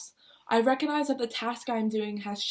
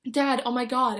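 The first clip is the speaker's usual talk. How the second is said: calling out to dad, louder; excited yell; 2 semitones higher, 4 dB louder than usual. Retold or imitated. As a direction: blurt it out the moment dad answers. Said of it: "I yell as my father picks up".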